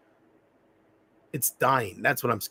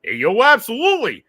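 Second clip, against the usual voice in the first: loud, much higher, slow Rocky shout; Rocky impression; 5 semitones higher, 6 dB louder, much slower than usual. Streamer performs his Rocky impression for chat, loud. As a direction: belt it like Rocky. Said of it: "that was pretty good".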